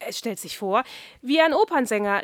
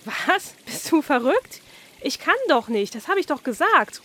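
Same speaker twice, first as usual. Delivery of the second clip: higher, pleading protest; desperate cry; 5 semitones higher than usual. Acted. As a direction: protest in mild despair. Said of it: "ruft Oskar verzweifelt".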